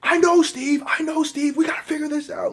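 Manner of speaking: Tony urging Steve, high mock voice. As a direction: play Tony pleading with Steve, pitched high. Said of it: "Tony's like".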